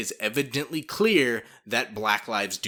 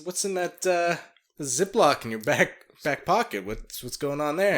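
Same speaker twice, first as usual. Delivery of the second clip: mock cop; 6 semitones higher, 4 dB louder than usual. Mock police officer questioning.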